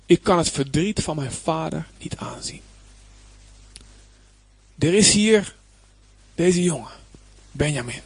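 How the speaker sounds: whispered, aching plea. Acted. Juda whispering his grief over his father. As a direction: breathe it like Juda unable to bear it.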